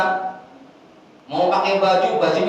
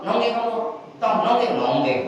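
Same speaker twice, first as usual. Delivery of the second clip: bossy father; 4 semitones higher than usual. Retold or imitated. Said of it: "Langsung itu anak suruh".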